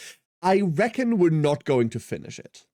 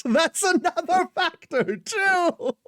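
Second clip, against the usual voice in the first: mock wounded squeak; slower than usual.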